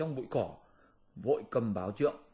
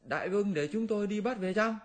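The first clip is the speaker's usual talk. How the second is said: eager squeaky minion; 8 semitones higher, faster than usual. Acted. Minion eagerly offers to capture.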